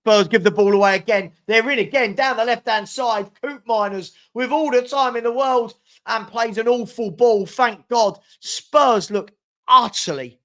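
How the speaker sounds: rising frustration as the chance goes wrong; exasperated outburst. Real, not acted.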